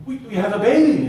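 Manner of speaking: high, loud, delighted stammer; excited new father. Retold or imitated. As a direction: burst out with the happy news.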